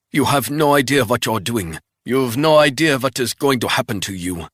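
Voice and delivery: mock him from the ground; sneering captive. Wounded spy taunting Resnick with a sneer.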